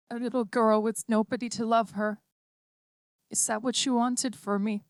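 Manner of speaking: put-on a small girl gently letting her mother go; lightly voiced child, tender and firm; little girl voice. A narrator's reading. Child android pleads gently.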